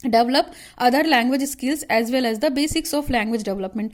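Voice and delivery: reads the point out slowly, word by word; slow dictation. Shown as a demonstration. Teacher dictating a syllabus point to students, slow and measured.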